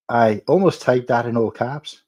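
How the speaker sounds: badly attempted Irish accent; terrible Irish accent. Shown as a demonstration. Streamer rereading a chat message in a bad Irish accent. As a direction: have a clumsy go at an Irish accent. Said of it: "No, that's a terrible Irish accent".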